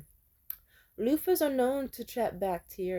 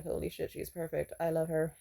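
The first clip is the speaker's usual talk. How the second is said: awed hush; 4 semitones lower, 6 dB quieter than usual. Retold or imitated. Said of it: "they're just like".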